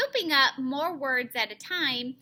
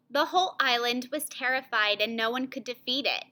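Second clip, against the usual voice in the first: slightly subdued, grave narration; a touch of dread; serious mood; faster than usual. Shown as a demonstration. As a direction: tell it as a serious part of the story. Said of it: "make my voice match that feeling".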